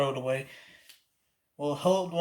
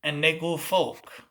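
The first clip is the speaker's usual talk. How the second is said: slurry bayou Cajun accent; slurred Cajun accent. Shown as a demonstration. Crossing down to the bayou, slurred Cajun accent. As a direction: slur it into Louisiana Cajun speech. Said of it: "add a little slur and an accent".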